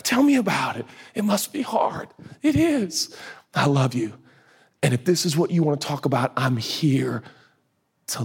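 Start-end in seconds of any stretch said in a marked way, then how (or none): 0.0-2.1 gentle invitation. Retold or imitated. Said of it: "He just goes".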